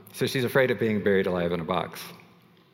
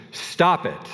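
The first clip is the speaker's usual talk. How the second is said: higher and louder, half-shouted stop it; exasperated stop it; 8 semitones higher, 4 dB louder than usual. Retold or imitated. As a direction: repeat it like she's not hearing English, pitch up and loud. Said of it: "it's almost like I'm not speaking English".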